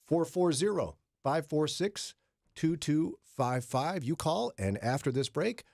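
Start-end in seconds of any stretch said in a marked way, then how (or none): 0.0-4.0 slow, emphatic read of the number; slow, deliberate number. Shown as a demonstration. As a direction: spell out each digit slowly. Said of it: "repeats number slowly".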